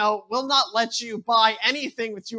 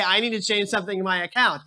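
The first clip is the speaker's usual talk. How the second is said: fed-up caller repeating; faster than usual. Retold or imitated. Caller repeating himself to the phone robot, exasperated. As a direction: push the request through, losing patience. Repeats request, more annoyed.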